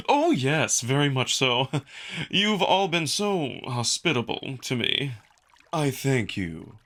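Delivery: a lightly voiced eager, courteous jackal; gracious and a little nervous, slowing at the thanks; polite guest Neferu.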